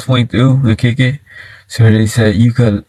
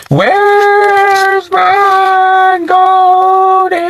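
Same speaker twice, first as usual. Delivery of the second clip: high, drawn-out ghostly wail; cousin's ghost voice; much slower than usual. Retold or imitated. Cousin creeping closer to the kids, high ghost wail. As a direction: stretch it slowly and eerily, way up high. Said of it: "getting closer and closer and saying".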